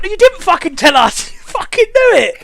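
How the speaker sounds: laughing retold rant; mock outraged comeback. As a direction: throw it back at the know-it-all. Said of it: "And I'm like".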